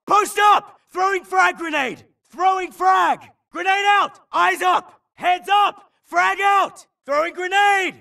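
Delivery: urgent combat yelling, pitched high; soldier shouting callouts. Acted. Soldier shouting to his squad under fire, urgent yell. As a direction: bark orders over gunfire.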